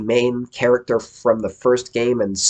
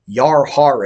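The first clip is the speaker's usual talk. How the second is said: pirate; 5 semitones higher, 7 dB louder than usual. Retold or imitated. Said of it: "The pirate goes".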